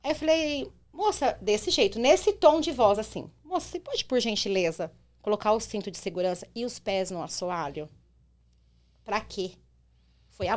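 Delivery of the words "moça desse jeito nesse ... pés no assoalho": pedido educado e pausado, sem subir a voz; educada e calma. Retold or imitated. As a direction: fale devagar, com gentileza firme. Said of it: "Assim, desse jeito". (tom calmo de motorista cortês)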